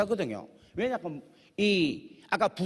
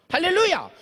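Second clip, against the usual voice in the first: joyful shout; 10 semitones higher, 6 dB louder than usual. Acted. Preacher's exultant cry.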